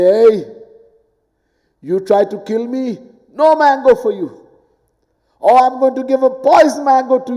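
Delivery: a spiteful tree scolding its gardener; voiced tree. Tree scolds the man who tried killing it, mock indignant.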